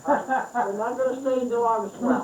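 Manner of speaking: high, loud, slow protest; hammed-up outraged exclaim; mock indignant. Joking refusal, big voice.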